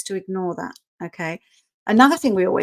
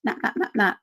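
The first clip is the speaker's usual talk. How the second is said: Prince voiced; 3 semitones higher than usual. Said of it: "He's always the one".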